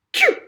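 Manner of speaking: short sharp sneeze; a quick second sneeze. Acted. Missus Toadley sneezing again as she declares, quick sneeze. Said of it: "with another sneeze".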